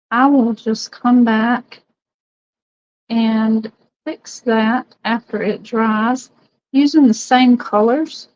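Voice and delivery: slow, breath held tight; holding breath. Real, not acted. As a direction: talk while holding your breath. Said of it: "I'm holding my breath right now".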